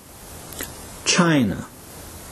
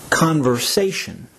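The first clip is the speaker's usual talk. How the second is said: "conversation" with the accent on "sa"; third-syllable stress. Shown as a demonstration. Teacher saying the word for learners, "conversation" stressed on "sa". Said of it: "third syllable is to be accented".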